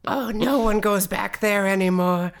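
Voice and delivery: high, loud, hammed-up lament; mock-woeful villager. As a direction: play the forlorn townsperson for laughs. Villager bit continues.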